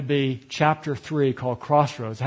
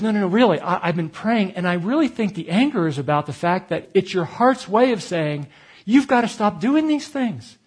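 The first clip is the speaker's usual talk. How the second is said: wife pressing her point, pitch climbing; imitated earnest insistence; 4 semitones higher than usual. Wife explaining his anger after praying, earnest retold insistence.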